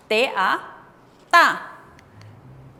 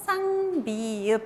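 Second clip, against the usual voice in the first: lectura más lenta; 2 semitones lower than usual. Shown as a demonstration. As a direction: draw out each syllable of "쌍비읍". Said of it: "vamos a leer más lento". ("쌍비읍" leído lento, sílaba por sílaba)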